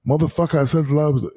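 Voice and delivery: mildly fed-up demand for the pass; retold exasperation. Retelling his call to Kobe, mock exasperation.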